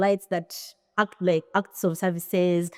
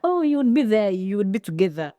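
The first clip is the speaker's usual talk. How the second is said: imitated boyfriend; 2 semitones higher than usual. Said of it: "my love language is acts of service".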